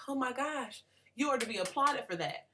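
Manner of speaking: high-pitched, mock-awestruck praise; imitated gushing elation. Speaker mimicking her elation at men's small achievements, gushing. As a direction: gush as if hugely impressed. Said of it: "I'm, I'm elated".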